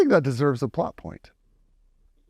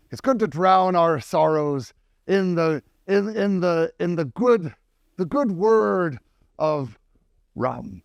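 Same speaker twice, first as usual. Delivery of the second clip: 1 mild pirate toast; 5 semitones higher than usual. Acted.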